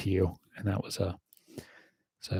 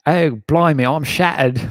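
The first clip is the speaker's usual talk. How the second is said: hammed-up British accent, higher and louder; 5 semitones higher, 5 dB louder than usual. Asking British viewers to judge, mock British accent. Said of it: "how was my British accent".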